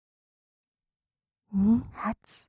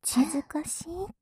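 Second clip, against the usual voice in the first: whispering. Acted. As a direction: tease in a hushed whisper. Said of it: "ささやいてる反対のお耳から".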